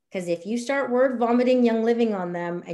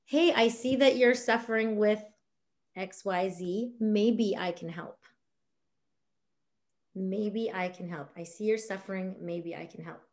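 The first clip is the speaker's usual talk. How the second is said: gentle private message. Shown as a demonstration. Coach demoing a kind message to a struggling friend, gentle. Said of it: "I'll just say something like".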